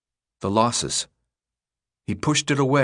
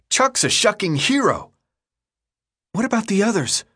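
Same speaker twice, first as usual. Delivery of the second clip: put-on raised, eager boy's voice; Thomas's voice; 11 semitones higher than usual. A narrator's reading. Thomas thanks Chuck after the escape, voiced higher and elated. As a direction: praise Chuck with near-delirious joy.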